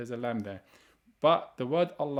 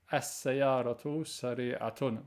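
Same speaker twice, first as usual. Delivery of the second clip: slow example sentence; slower than usual. Shown as a demonstration. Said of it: "make it a feminine object".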